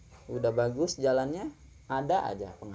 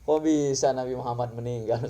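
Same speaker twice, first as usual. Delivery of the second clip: slow, drawn-out wailing "Ya Allah" in mock grief; retold crying; slower than usual. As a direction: stretch the first words like a man weeping. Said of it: "Umar bin Khattab langsung nangis".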